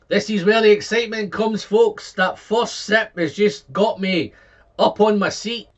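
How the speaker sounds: lifted right off the seat by the taste; excited. Real, not acted. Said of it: "I'm getting too excited".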